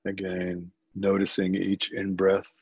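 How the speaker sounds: unhurried guiding voice with long pauses; calm body-scan guidance, leaving space between phrases; guided meditation. Acted. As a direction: lead listeners gently through it, phrase by phrase.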